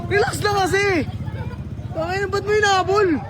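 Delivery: high-pitched remonstrating; exasperated appeal to a buddy; upset protest. Real, not acted. Protesting at friend after scuffle.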